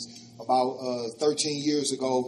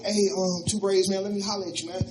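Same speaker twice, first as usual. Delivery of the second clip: Rick's voice; 5 semitones higher than usual. Retold or imitated. Rick calls him over.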